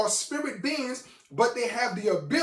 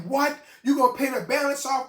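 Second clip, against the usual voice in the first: high, emphatic astonished question; incredulous; 4 semitones higher, 4 dB louder than usual. Retold or imitated. Storyteller amazed that the balance gets paid, incredulous. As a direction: replay the disbelief, pitched up. Repeats his astonished reaction.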